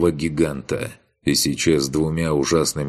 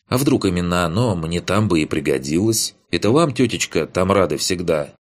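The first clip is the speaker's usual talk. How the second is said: put-on cheeky young man; 3 semitones higher than usual. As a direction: tease them lightly, talking fast. Riis's cheeky speech.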